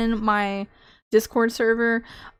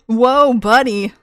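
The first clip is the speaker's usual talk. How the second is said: imitating a catchphrase; 5 dB louder, slower than usual. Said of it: "I can't say it like he does".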